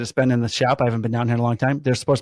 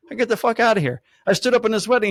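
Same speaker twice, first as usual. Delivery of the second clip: high-pitched, amazed outburst; incredulous, raised voice; retold disbelief; 10 semitones higher, 3 dB louder, faster than usual. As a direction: relive the astonishment at a coincidence. Retold astonishment at shared connection.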